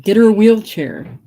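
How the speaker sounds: retold shout. Princess quoting Chance's call downstairs, mock shout. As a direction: imitate someone shouting for help. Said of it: "you shouted".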